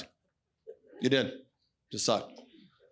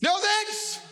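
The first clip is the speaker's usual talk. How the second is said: higher firmer refusal; 13 semitones higher than usual. Shown as a demonstration. Repeated refusal to the enemy.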